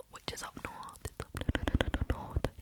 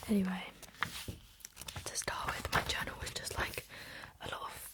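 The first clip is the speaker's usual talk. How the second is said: ASMR whisper. Real, not acted. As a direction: whisper it close and unhurried, like ASMR. Whispered ASMR ramble throughout.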